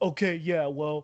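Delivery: mocking, put-on skeptical voice. Imitating skeptics who doubt the evidence: imitating a hater's voice. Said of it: "I don't know why I'm talking like that".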